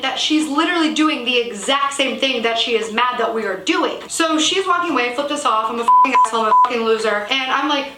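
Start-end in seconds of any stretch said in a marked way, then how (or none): 5.7-7.3 shrill imitated insult yelling; mock angry yell. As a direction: yell it like the furious woman. Quoting woman's insults.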